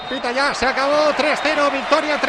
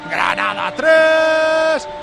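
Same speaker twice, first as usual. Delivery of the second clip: excited shout; 2 semitones higher, much slower than usual. Real, not acted. Final score called after goal.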